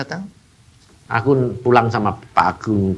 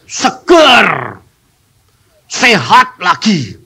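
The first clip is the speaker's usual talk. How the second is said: cheerful report; 5 semitones higher, 4 dB louder, much slower than usual. Retold or imitated. Sick man reports feeling well.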